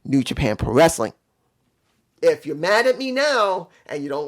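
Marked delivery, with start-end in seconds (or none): 0.0-1.1 mock outburst. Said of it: "make me say".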